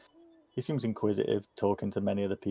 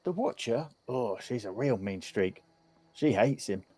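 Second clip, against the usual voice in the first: put-on inquisitive kid; 2 semitones higher than usual. Kid tells strangers about the big house, lightly voiced child. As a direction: lightly play a gossipy youngster.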